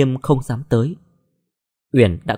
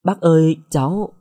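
startled stammer; 4 semitones higher than usual. A narrator's reading. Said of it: "Uyển ngỡ ngàng".

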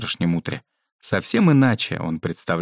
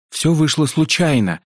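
high-pitched, fervent protest; heated assurance; 8 semitones higher, 4 dB louder than usual. A narrator's reading. Yusuf assures the headmistress it was an accident, heated. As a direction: insist fervently, pitch pushed up. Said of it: "горячо заверил её Юсуф".

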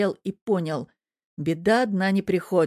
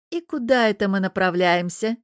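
hissed threat; 2 semitones higher, 4 dB louder than usual. Acted. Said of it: "прошипела зараза".

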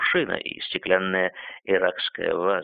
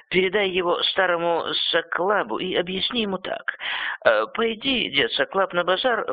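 put-on high, frail old man giving orders; an old master instructing his boy; 3 semitones higher than usual. Старик наставляет мальчика. (голос старого хозяина)

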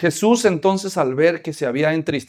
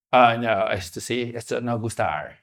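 mock whine; 8 semitones lower, 8 dB quieter, slower than usual. Visitor whining softly.

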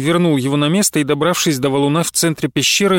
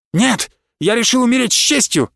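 defiant shout; 7 semitones higher than usual. A narrator's reading. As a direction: insist on honor at the top of his voice. Marис defiantly shouts back.

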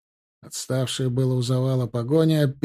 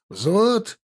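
high-pitched military call; high, commanding summons; barked command; 8 semitones higher than usual. A narrator's reading. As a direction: call the platoon to attention. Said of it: "рявкнул, что было сил".

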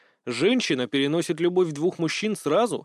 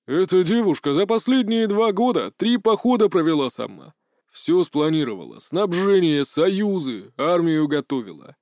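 proud; 2 semitones higher than usual. Acted. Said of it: "с гордостью произнёс её папа".

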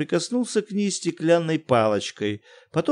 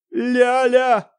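loud, high yell of a name; thunderous bellow; 11 semitones higher, 7 dB louder than usual. Acted. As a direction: bellow for his wife from the study. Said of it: "издал громогласный вопль". (громогласный вопль мужа)

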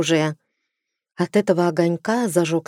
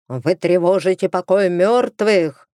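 ghostly bark. Acted. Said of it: "рявкнул третий голос".

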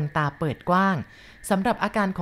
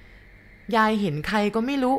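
annoyed; 5 semitones higher, much slower than usual. Acted. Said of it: "ผมก็พูดอย่างรำคาญใจ".

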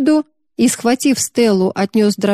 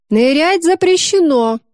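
mild stern bark; 7 semitones higher than usual. A narrator's reading. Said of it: "хмуро рявкнул он".

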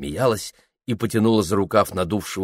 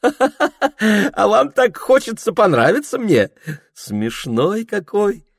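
high, slow teasing with a laugh underneath; young woman amused by a shy suitor, laughing; 14 semitones higher, 4 dB louder, slower than usual. A narrator's reading. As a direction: tease him, half laughing. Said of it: "сжала губы и засмеялась в нос".

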